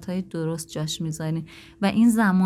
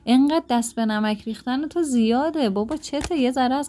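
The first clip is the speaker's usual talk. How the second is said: higher, exasperated scolding of spouse; nagging criticism; 5 semitones higher than usual. Shown as a demonstration. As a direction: scold a spouse over salty food, raised pitch. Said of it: "ولی این که بگی که". (غر زدن و سرزنش با صدای بالاتر)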